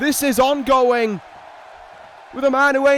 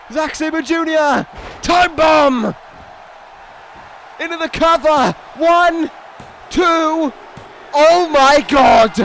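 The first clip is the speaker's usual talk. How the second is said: loud, higher, building through the count; real excitement, louder to a slow Oh my God; climactic count; 4 semitones higher, 5 dB louder, slower than usual. Real, not acted. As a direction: count the pin like the title's changing hands. Calling the pinfall count live.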